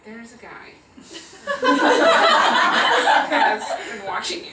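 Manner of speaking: telling her about Santa through giggles; can't keep a straight face while announcing it; giggly mock-mysterious reveal; laughing storytelling. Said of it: "so I go".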